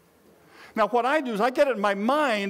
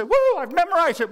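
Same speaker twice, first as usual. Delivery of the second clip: mock cheer; 8 semitones higher, 5 dB louder than usual. Imagined learner cheering.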